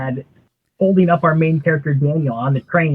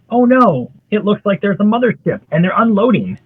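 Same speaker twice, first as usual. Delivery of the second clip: alarmed; 4 semitones higher than usual. Acted. Character spots alien mothership.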